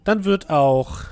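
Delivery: slow, gracious but menacing; a lightly voiced ruler with a veiled threat; masked ruler voice. GM voicing the masked woman.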